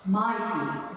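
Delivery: "My" marked out as the key word, falling close; stress on MY. Retold or imitated. Quoting the Lord to the group, stress on "My". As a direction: lean on "My", then let "peace" fall. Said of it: "It's so cool how he says".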